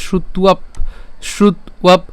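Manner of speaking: শ্রুত্বাপ as "shrut-uap", closed on p; separated final p. Shown as a demonstration. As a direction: finish শ্রুত্বাপ on a distinct p. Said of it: "পকে আলাদা করে উচ্চারণ করছি". (শ্রুত্বাপ, শেষে প আলাদা করে)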